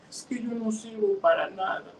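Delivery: high, soft whimper of a sad little pot; storyteller's mock crying voice; tearful. A narrator's reading. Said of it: "¿por qué estás llorando?".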